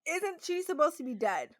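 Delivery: asking who brought the dead back; shocked disbelief. Retold or imitated. A retold shocked "what in the world". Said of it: "I was so shocked".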